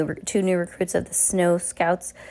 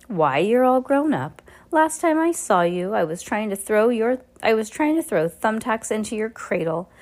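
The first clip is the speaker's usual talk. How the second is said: mocking villain; 5 semitones higher than usual. Olaf mocking Fiona.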